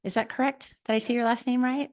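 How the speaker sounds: lisping around a retainer; talking with a retainer. Real, not acted. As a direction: struggle to talk around a retainer. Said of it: "I cannot talk with this retainer".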